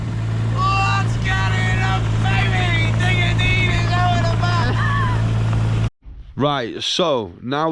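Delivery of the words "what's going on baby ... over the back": high, slow, stretched-out hype call; hyped-up intro. Real, not acted. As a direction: call it out like a big show opener. Hyped intro shout to camera.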